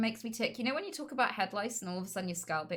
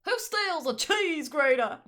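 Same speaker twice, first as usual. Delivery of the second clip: mock indignant; 7 semitones higher, 7 dB louder, slower than usual. Joking voice.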